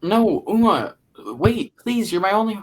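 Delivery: panicked plea to the departing actor; desperate pleading. Real, not acted. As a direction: beg her not to leave. Begging the actor to stay.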